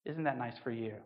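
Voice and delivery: soft, low mock sympathy; lightly acted condescending pity. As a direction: patronise them gently, voice dropped. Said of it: "they give you that nice condescending".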